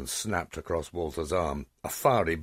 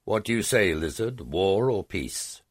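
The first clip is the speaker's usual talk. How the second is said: defiant challenge; 5 semitones higher, 5 dB louder than usual. Acted. Hero challenges the dragon.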